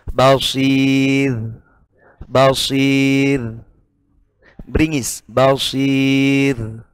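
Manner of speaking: Basir ending on a light r; thin r at pause. Shown as a demonstration. Teacher showing the paused Basir with a thin r. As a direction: stop on Basir, the r kept thin. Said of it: "dibaca tipis".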